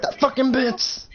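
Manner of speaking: high, drawn-out curse; strained high yell, not full volume; acted fury. Acted rage after phone call.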